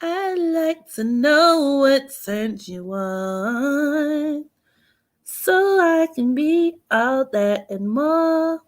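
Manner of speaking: slow, sultry flirting; sexy voice. Pretend. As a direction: purr it slowly, seductive. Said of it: "I gotta put on my sexy voice".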